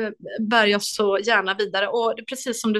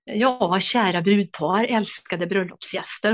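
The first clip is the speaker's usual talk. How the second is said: Värmland accent imitation; slower than usual. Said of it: "Jag försöker imitera värmländska polisen".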